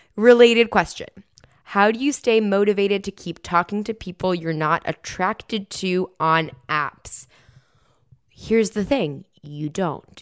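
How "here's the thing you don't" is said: cheeky, playfully sassy tone. Answering a listener question about staying motivated on dating apps, speaker responds sassy. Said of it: "I'm being sassy".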